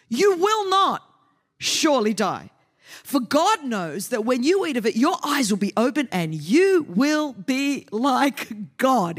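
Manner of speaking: seduce her slowly as the serpent; tempting serpent. Acted. Serpent voiced in scripture reading.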